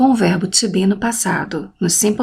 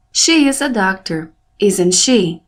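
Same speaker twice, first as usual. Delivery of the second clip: tag question with the voice raised on final "she"; rising intonation. Shown as a demonstration. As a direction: make "she" at the end the strongest sound. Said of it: "é o som mais forte da minha pergunta".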